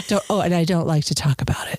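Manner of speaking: secretive whisper, hushed and low. Pretend. Client whispering a secret to the masseuse. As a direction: breathe it out like a guarded secret. Mock secretive alien story.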